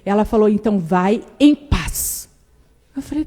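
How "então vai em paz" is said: slow blessing. Retold or imitated.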